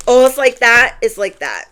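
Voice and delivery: loud rising oh, then falling; lightly voiced rejected stranger; mock offended guy. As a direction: play the stranger taking offence. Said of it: "I'm like".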